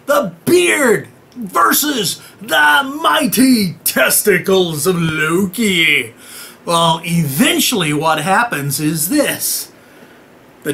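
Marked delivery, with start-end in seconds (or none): 0.1-6.1 slow, grand ring announcer tone; mock epic announcer. Announcing the tug of war, slow mock epic. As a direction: hype it like a prize fight.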